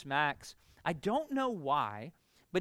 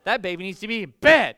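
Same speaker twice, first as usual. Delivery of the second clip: louder, laughing fake indignation; laughing mock outrage; 13 dB louder than usual. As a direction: blurt it out with a laugh, scandalised.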